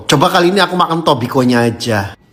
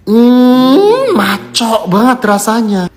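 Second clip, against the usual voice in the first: savoring; 6 semitones higher, much slower than usual. Real, not acted. First bite of the snack.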